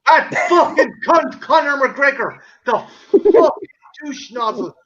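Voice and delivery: heated rant. Real, not acted. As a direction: spit out the insults with relish. Ranting about the man he hates.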